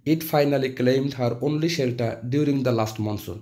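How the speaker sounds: reading the sentence out slowly and clearly; careful dictation pace for students; slow model reading. Shown as a demonstration. Teacher reading an example sentence to the class, slow and deliberate. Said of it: "আরেকটা বাক্য হলো".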